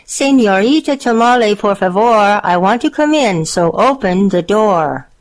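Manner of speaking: coaxing wolf asking to come in; sweet-talking wolf. Acted. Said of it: "Then he said".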